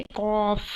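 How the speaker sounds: thick, full "कॉफ" from the back of the throat; heavy Qaaf. Shown as a demonstration. Teacher showing how thick "कॉफ" must be read. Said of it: "इसे मोटा पढ़ना है".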